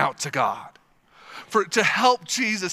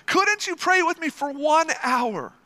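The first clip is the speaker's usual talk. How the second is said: laughing repeat; 8 semitones higher than usual. Shown as a demonstration. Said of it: "repeats the plea".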